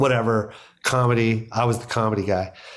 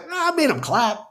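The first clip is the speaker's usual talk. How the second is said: laughing delight; 13 semitones higher than usual. Retold or imitated. Retelling his delight, laughing.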